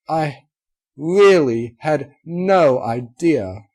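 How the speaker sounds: pressing each word, nearly crying; heartfelt repeat. A narrator's reading. Rarity repeats, more emotional.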